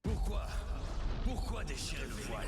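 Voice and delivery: cri aigu et fort, pourquoi répété; cri désespéré. Acted. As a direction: hurler la question, déchiré par la trahison. Varric crie sur Solas. (cri aigu plein de reproche)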